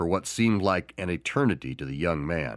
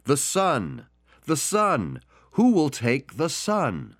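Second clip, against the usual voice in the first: higher, slow, drawn-out auction call; raised auctioneer calling out the son; 7 semitones higher, slower than usual. Acted. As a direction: keep offering the painting to a deaf room. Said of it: "the auctioneer continued".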